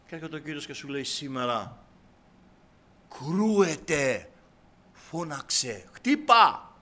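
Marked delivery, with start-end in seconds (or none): 3.2-6.7 commanding call. Acted. Preacher quotes the Lord's command.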